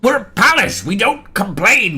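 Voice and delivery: high, loud acted telling-off; exasperated scolding. First gate scolds the other for complaining, exasperated.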